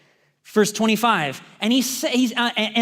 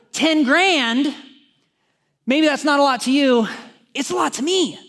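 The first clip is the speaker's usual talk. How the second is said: higher, louder punch on the sums; emphatic preaching; 6 semitones higher, 3 dB louder than usual. Real, not acted. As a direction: drive the point home. Preacher stressing the sum.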